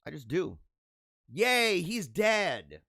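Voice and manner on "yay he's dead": mock cheer. Mocking people glad of a death.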